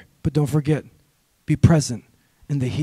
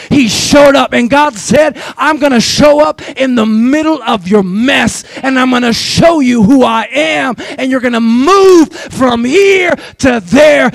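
preaching shout; 2 semitones higher, 4 dB louder than usual. Acted. Pastor proclaiming God's words to the congregation, loud. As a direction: shout it out over the church.

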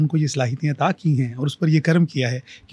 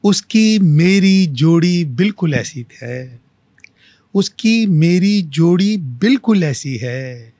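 slow, drawn-out verse, repeated line lifted; mushaira-style recital, lingering on each phrase; poetry recitation; 3 dB louder, much slower than usual. Acted. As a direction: recite with long, measured pauses. Recites own verse to host.

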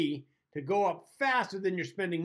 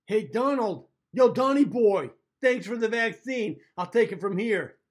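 louder, teasing, slow on thanks; mock smug taunt; 3 semitones higher, 5 dB louder than usual. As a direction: rub it in with a cocky grin. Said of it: "he turns to Trump saying".

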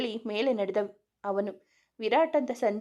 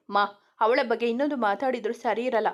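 louder, sharp warning to his mother; angry warning; 6 dB louder than usual. Acted. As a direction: warn her off, voice raised. Son warns mother in quarrel.

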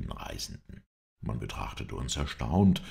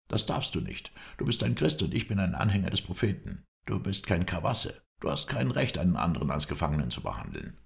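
lightly voiced indignant captive, higher pitched; hint of a captive's protest; protesting prisoner; 4 semitones higher than usual. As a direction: object in a higher, worried voice. Prisoner protests being bound.

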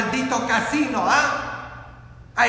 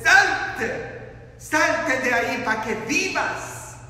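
preacher's shout; 2 semitones higher, slower than usual. Retold or imitated. Preacher voices Jesus calling people out to live, urgent shout. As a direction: call out, stretching the command. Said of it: "Jesús está gritando a nosotros".

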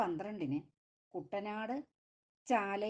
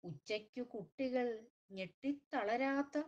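measured, lilting recital of a lament poem; slow rhythmic poetry reading with falling line ends; poem recitation. Acted. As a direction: recite it like a mournful refrain, lingering on each "makkale". Poem recital after intro.

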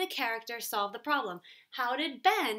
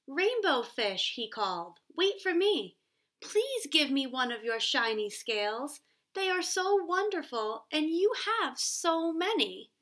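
pleading little fish voice, pitched higher; little blue fish; 5 semitones higher than usual. Acted. Little blue fish begging Rainbow Fish for a scale, higher pleading voice. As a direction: beg sweetly like a small eager fish.

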